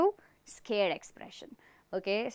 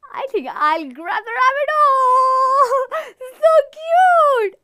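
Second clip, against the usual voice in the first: higher and louder, gushing with a laugh; delighted; 11 semitones higher, 9 dB louder, slower than usual. Acted. Teacher acting the forest game, gushing over a rabbit. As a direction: coo over the cute rabbit. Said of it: "will you just be happy".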